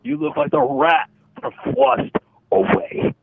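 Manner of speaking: high, slow, squeaky anime taunt; sing-song anime girl insult; high cute anime girl. Acted. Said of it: "you sound like an anime character".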